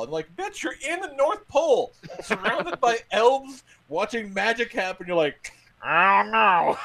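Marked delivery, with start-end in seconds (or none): 0.4-5.1 high-pitched, laughing incredulity; mock exasperation. Heckling the doubting kid at the North Pole, mock exasperation. 5.8-6.8 high, loud goofy whine; mocking doubter. Doubting kid surrounded by elves, mocking imitation.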